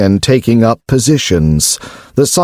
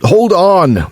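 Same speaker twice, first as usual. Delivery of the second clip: barked; 8 semitones higher than usual. A narrator's reading. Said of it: "the other cyborg barked".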